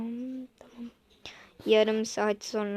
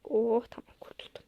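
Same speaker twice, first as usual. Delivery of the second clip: relieved whisper; 6 dB quieter than usual. Acted. Relief alone.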